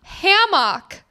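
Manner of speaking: "hammock" with a full MOCK second syllable; odd "hammock" pronunciation. Friend objecting to how it is said, mock pronunciation of "hammock". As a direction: draw out "hammock", ending like "mock". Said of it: "no one says hammock".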